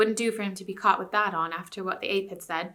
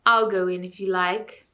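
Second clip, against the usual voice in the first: cool clear voice; 6 dB louder than usual. Acted. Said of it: "in a cool, clear voice".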